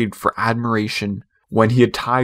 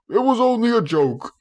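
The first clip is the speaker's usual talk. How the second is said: mild roar; 11 semitones higher than usual. A narrator's reading. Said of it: "he roared".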